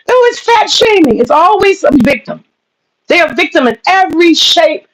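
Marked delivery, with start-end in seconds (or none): 0.1-1.2 high, whiny mock wail; mocking whine. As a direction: squeal the word like a parody victim. Mocking femcels' complaints.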